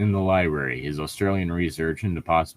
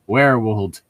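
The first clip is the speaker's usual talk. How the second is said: mocking echo; 2 semitones higher, 5 dB louder than usual. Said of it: "Ah, yes".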